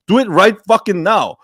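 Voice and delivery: ordinary talk, nothing marked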